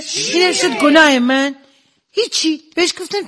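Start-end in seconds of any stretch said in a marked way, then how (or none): 0.0-1.5 slow, higher, acted surprise; mock astonishment. Wife sees her husband doubled up in pain, acted astonishment. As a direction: stretch it out in theatrical amazement.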